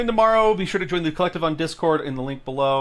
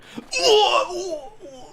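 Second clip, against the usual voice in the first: Street Fighter death scream; 5 dB louder than usual. Pretend. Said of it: "like, death scream".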